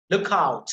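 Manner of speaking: lookout with OUT stressed; stress on second word. Shown as a demonstration. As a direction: punch OUT in lookout. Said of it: "the second one will be a stress".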